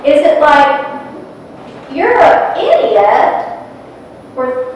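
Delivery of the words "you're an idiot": higher, drawn-out scornful insult; mock insult. Shown as a demonstration. Speaker showing a negative intention put into water, scornful. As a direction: stretch the insult out mockingly.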